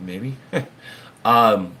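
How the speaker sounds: ordinary talk, nothing marked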